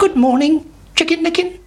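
high, chirpy hen greeting; a friendly hen asking; curious hen. A narrator's reading. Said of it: "said Henny Penny".

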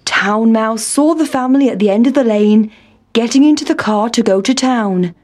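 usual speaking voice

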